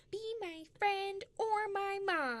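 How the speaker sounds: slow, high laughing plea; pleading to be adopted, laughing. Pretend. Joking plea to Josephine Baker.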